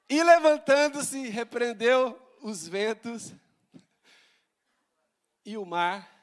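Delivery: loud, slow, weighty reading; dramatic scripture reading. Acted. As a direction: proclaim the verse slowly. Leitura dramática. (leitura bíblica solene, alta e lenta)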